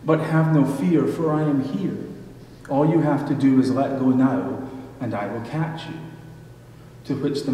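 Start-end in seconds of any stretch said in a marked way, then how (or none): 0.1-5.9 booming voice of God. Retold or imitated. God reassuring the man hanging from the cliff, booming. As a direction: proclaim it from on high.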